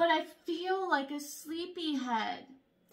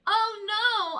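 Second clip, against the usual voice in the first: dismayed oh no; 6 semitones higher, 6 dB louder than usual. A narrator's reading. Spilled paint.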